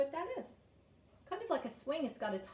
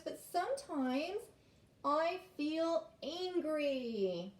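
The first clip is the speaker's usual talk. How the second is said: lively, measured storybook reading; reading to children; 3 semitones higher, slower than usual. A narrator's reading. Teacher reads Nally's words to children, animated storybook voice. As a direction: read it expressively, stretching the last phrase slowly.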